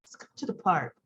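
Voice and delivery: low, soft coaxing; coaxing Diane. Retold or imitated. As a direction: sweetly lure him to the park. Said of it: "And Diane's".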